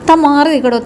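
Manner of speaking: lightly voiced cop ordering him away; mock police shout.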